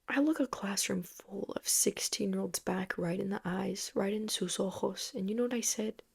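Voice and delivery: hushed, building suspense; suspense whisper. Real, not acted. Setting up the punchline for viewers, whispered. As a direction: lean in and whisper the setup.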